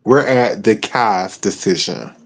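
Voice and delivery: slow, low, lazy words; drawled out while high; stoner. Real, not acted. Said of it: "I'm kinda high right now".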